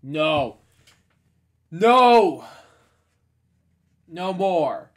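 full-throated villain yell; villain shout. Acted. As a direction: roar it at the falling brother. Scar's climactic villain outburst.

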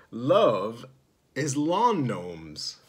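put-on a child's silly answer, half laughed; laughing. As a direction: laugh into the words, then stretch them slow. Kid's answer read with laughter.

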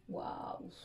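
breathy whispered Waouh of surprise; hushed, impressed wow at the colour. Real, not acted. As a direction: let out a soft, amazed Waouh under your breath. Reacting to a lipstick's colour.

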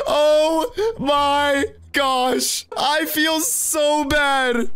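mock sobbing. Prankster fakes remorse.

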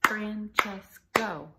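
Francesco split into Fran-ches-co, slow and loud; syllable by syllable. Shown as a demonstration. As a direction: clap out each syllable of Francesco, stretched. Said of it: "Three syllables in Francesco".

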